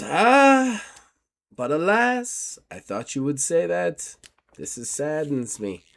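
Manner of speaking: formal gentleman. Acted. GM as Gustav taking his leave of Miss Carlton, formal and polite. Gustav refuses their help.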